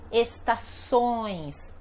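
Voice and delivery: slow "estações", the final ões buzzing through the nose; very nasal ending. Shown as a demonstration. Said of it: "bem nasal, horrível".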